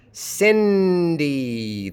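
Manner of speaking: Cindy drawn out, short I then long EE; slow, falling demo of Cindy; two distinct vowels. Shown as a demonstration. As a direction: stretch both syllables of Cindy to show two vowels. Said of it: "vowels are not the same in the two syllables".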